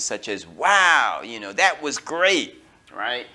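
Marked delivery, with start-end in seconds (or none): 0.5-2.6 louder "Wow" with excitement; excited exclamation. Shown as a demonstration. Teacher showing words of excitement to students. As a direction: sound thrilled. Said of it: "natural words that show excitement".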